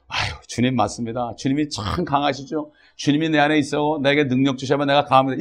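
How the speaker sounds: understated prayer, talking to the Lord; conversational prayer. Shown as a demonstration. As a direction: demonstrate a simple, personal prayer. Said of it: "이렇게 기도, 이게 기도예요".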